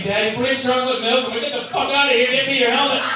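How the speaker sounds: put-on kids' voice pitched high and fast. Kids running to dad, high fast kid voice. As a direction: rattle it off like an excited kid. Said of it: "Kids come up to me".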